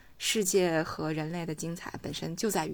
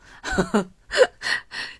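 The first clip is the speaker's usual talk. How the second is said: high squeal laugh; 8 dB louder than usual. Real, not acted. Laughs at own joke.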